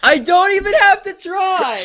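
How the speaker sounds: loud, very high laughing shriek; cracking up. Real, not acted. Reader losing it at the fanfiction, cracking up. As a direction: squeal it through real laughter.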